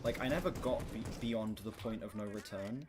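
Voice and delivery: ordinary delivery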